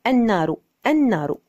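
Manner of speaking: النار as "an-naaru", silent lam, final u; assimilated article. Shown as a demonstration. Teacher modelling the sound twice, النار as an-naaru. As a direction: repeat النار with doubled n and final u. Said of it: "هكذا".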